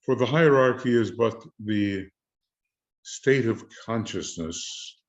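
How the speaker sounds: winded, pausing for air; short of breath. Real, not acted. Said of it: "get a little short of breath here".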